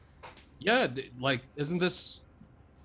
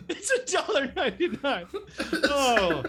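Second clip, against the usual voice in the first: laughing; 11 semitones higher than usual. Real, not acted.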